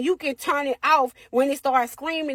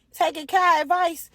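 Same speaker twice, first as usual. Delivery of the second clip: usual speaking voice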